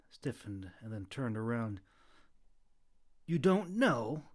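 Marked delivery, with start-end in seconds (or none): 3.3-4.3 surprised. A narrator's reading. Stiffened, surprised.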